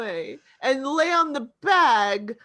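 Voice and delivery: attempted Danish accent gone astray; badly faked Danish accent. Actor as cat declining to talk, botched Danish accent. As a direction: have a clumsy go at a Danish accent. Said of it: "He's German. I can't do".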